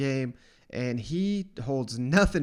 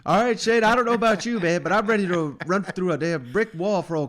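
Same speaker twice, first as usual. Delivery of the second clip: excited; 4 semitones higher, 6 dB louder than usual. Real, not acted. Fired up after the clip.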